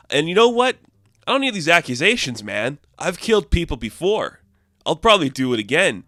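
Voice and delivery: mock indignant outburst. Wrecker snapping at the accusations.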